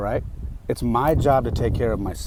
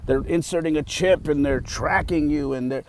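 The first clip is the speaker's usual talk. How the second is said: higher-pitched, lightly hammed-up alarm; mock conspiracy theorist; 5 semitones higher than usual. Mimicking people talking craziness, mock alarm. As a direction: lightly imitate a crank spreading wild theories. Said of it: "people talking some craziness".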